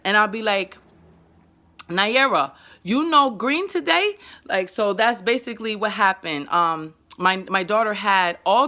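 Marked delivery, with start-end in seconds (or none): 1.9-4.2 put-on simple child talk. Shown as a demonstration. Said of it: "I talk like that because".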